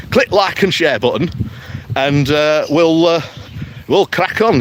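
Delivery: put-on light Yorkshire accent, "Click" stressed, rising at the end; a bouncy Yorkshire plug with "Click" hit and an upward lilt. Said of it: "take my Yorkshire accent off".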